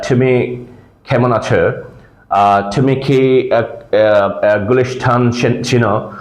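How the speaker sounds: put-on hesitant Bangla in an English accent, aspirated "তুমি"; foreigner's accented Bangla. Teacher imitating foreigners visiting Bangladesh, English-accented Bangla. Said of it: "ওরা টকে ঠ বলে".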